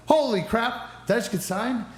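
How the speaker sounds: high, drawn-out amazed exclamation; acted-out astonishment; shocked and dumbfounded. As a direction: stretch it out slowly in high-pitched disbelief. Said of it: "now I was so shocked and dumbfounded".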